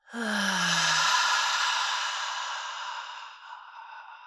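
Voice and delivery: big, slowly fading mouth sigh; long exhaled sigh. Shown as a demonstration. Guide modelling the slowed exhale, long fading sigh. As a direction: release all the breath in one long sigh. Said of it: "exhale out the mouth".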